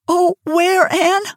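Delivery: high tearful plea; mild sob. A narrator's reading. Carrie pleading with fallen Anne, a touch tearful and high. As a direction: ask through a touch of tears. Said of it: "sobbed Carrie Sloane".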